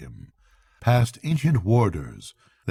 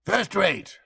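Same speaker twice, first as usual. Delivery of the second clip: pleased magistrate; 10 semitones higher than usual. A narrator's reading. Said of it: "said the chairman".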